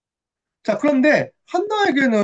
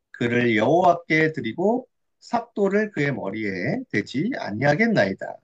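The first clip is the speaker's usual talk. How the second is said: slow, lower reading voice; scripture reading; 5 semitones lower than usual. Acted. Preacher reads Hannah's vow to children, slow scripture reading. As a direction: read the verse out slowly and measuredly.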